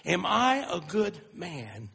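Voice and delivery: gently baffled, drawing it out; wife slowly echoing her husband's question, puzzled; slow incredulous echo. Retold or imitated. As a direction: repeat his question back slowly, puzzled. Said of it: "She said".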